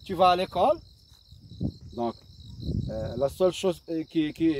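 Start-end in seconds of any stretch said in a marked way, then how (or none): 0.0-0.8 l'école lifted at the end; a lighter rising question on l'école; question rise. Shown as a demonstration. Teacher repeats the question, gently rising. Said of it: "Et on a changé l'intonation".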